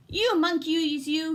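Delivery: mildly angry peddler. Acted. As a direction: scold them, fist shaking. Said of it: "shaking his fist before them".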